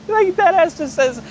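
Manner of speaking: high-pitched, laughing through the words; real laughing. Real, not acted. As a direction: crack up while telling it. Cracks up retelling the mother's line.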